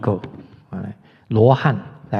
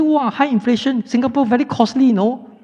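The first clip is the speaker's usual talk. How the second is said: mock amazement; 9 semitones higher than usual. Mimicking people complaining about Singapore costs.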